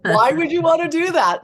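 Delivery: high, loud teasing question; cheeky Mother Mary. Retold or imitated. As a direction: tease her in a high, loud voice. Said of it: "She's like".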